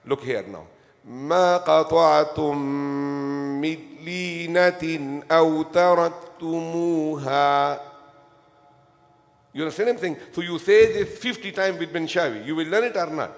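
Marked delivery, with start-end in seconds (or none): 1.0-7.8 Arabic accent, melodic Quranic chant. Shown as a demonstration. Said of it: "I am telling you the Arabic accent".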